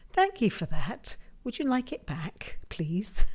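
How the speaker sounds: lightly whining mock thanks; playful, half-hearted little whine. Host jokingly thanking the States for the storm, mock whining. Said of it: "I'm just whining".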